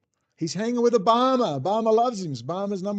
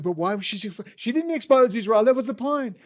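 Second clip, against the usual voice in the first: mocking troll voice; 3 semitones higher, 5 dB louder than usual. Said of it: "they said".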